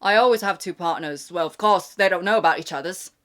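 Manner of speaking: imitating a dater in a British accent; mock British accent. Mocking the two-partner dater's reply, British accent. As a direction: quote it back with a put-on British accent. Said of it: "I also love the way they say this".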